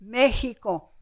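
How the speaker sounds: "Mexico" said as meh-HEE-ko; "Mexico" as meh-hee-ko, imitating the waiters; Vietnamese waiters' pronunciation. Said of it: "that's the way they pronounced it".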